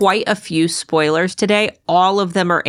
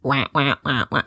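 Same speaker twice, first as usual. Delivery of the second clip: penguin noise; 5 semitones lower, 4 dB quieter than usual. Pretend. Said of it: "if you can find a penguin noise".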